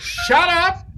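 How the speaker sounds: a hint of a gruff dad snapping; imitating an impatient father; lightly voiced father; mock dad. Dad voiced in retold story.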